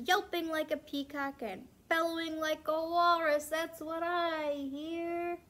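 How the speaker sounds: building read-aloud. Acted. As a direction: build the excitement through the list. Climax list of animal sounds.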